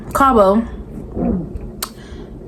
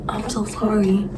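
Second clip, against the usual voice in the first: softer, small, sheepish "I'm so sorry"; a touch of mock timidity, much softer; mock meek apology; 8 dB quieter than usual. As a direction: shrink into a timid little apology. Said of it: "She's talking about some".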